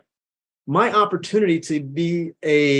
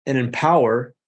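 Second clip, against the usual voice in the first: said slow. Shown as a demonstration. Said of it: "I'll say it slow so people can".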